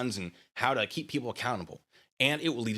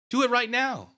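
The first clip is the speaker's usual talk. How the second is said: louder taunt; 12 semitones higher, 4 dB louder than usual. Acted. Repeated taunt, higher.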